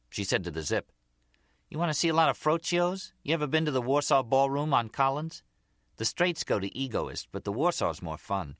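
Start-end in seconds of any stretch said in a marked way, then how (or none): 1.7-8.6 Gloria, chatty. Acted. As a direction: open high and chatty, then ease down. Voices Gloria chatting to the Zip.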